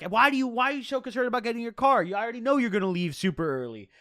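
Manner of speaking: imitating an annoyed mom, high and quick; pissed-off mom. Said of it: "She's starting to get pissed".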